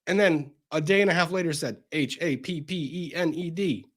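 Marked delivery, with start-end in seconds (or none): 1.9-3.8 slow, soft, letter by letter; spelled out slowly. Acted. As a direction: drag out each letter mockingly. Spelled out mockingly.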